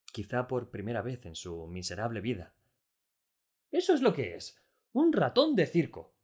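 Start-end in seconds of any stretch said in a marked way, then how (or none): 3.7-4.6 much higher and louder with delight; overjoyed. A narrator's reading. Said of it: "rebosante de alegría". 4.9-6.1 much higher and louder, slow and delighted; overjoyed. A narrator's reading. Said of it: "rebosante de alegría".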